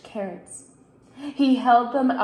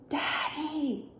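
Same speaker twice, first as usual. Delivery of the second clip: soft, higher little call; very quiet; 4 semitones higher, 8 dB quieter than usual. A narrator's reading. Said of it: "Luke said very quietly".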